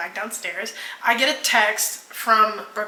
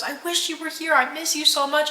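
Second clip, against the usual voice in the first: imitated whining; 6 semitones higher than usual. Imitating crying girlfriend on FaceTime.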